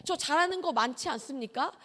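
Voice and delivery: put-on young preacher talking back to God, cocky; arrogant prayer. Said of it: "아주 교만하고 건방지게".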